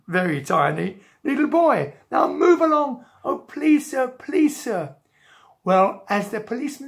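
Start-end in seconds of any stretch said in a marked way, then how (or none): 2.1-3.0 lightly voiced bossy policeman, higher pitch. Policeman to a little boy in his way, officious. 3.2-4.9 higher, lightly voiced begging child; a touch of a small boy pleading. Jack begging the policeman to listen, pleading.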